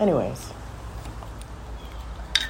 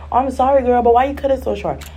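higher-pitched mock concern; imitated nosy friend; 8 semitones higher than usual. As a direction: play the friend prying about the haircut. Imitating nosy commenters on haircut.

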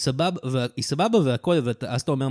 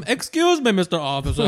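much higher, mock sweet plea; high mock girly voice; 4 semitones higher, slower than usual. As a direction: squeak it like a fake innocent girl. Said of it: "היא לא עושה פתאום".

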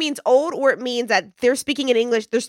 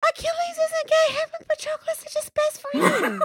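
high mocking voice of a denying scholar; mock the old historian who insists they're friends; stuffy historian voice; 14 semitones higher than usual. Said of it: "making fun of old-ass white dude historians".

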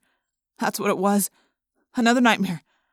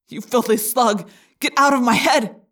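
louder, furious cry; angry shout; 2 semitones higher, 4 dB louder than usual. Acted. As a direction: spit the insult then shout. Jake rages at the Yeerk.

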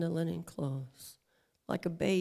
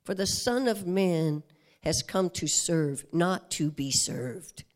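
booming, lower declaration, slowing at the end; loud proclamation; 3 semitones lower, 7 dB louder than usual. Acted. Jesus proclaiming his mission to all, booming. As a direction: proclaim it to the crowd. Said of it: "for that was his proclamation".

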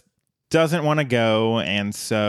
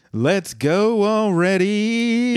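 higher, slow put-on robot voice; Bender impression; 9 semitones higher, slower than usual. Bender calling Fry out of the void, put-on robot voice. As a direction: drag it out like a cranky robot. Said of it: "It's very good".

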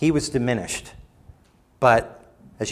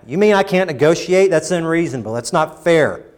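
higher, louder whine of unfairness; indignant protest; 5 semitones higher, 4 dB louder than usual. Acted. Preacher voicing a listener angry at God's terms, indignant. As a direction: protest like you've been cheated.

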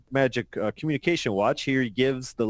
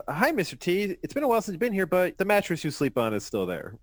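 mock nurse voice; 5 semitones higher than usual. Nurse voiced in comic read.

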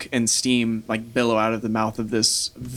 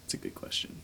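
much softer, a voiceless murmur; muttered in character; 17 dB quieter, faster than usual. Shown as a demonstration. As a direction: say it under your breath as the dragon. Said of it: "this is D M talking".

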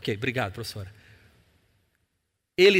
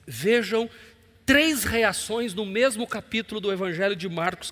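usual speaking voice

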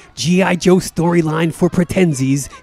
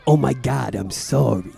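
soft, sarcastic hush; fake-sorry whisper; mock apology; 4 dB quieter than usual. The speaker mocking Dave with a hushed fake apology.

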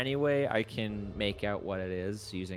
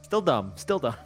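mock groan; 3 semitones higher, 5 dB louder than usual. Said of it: "I rolled a four".

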